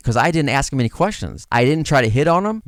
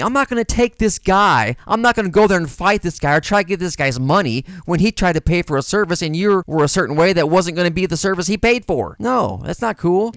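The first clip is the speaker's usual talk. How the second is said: higher, raised voice, annoyed refusal; mad; 5 semitones higher than usual. Retold or imitated. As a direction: push back hard, won't fight the guy. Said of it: "she got so mad at me".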